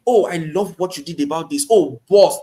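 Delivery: butter them up with a mild whine; whining flattery. Shown as a demonstration. Opening line to a stranger, lightly fawning whine. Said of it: "you whine them".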